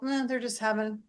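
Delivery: laid-back calm, not bothered at all; relaxed shrug. Retold or imitated. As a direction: let it go with a casual shrug. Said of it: "And another person go".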